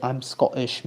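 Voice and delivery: put-on Scottish accent.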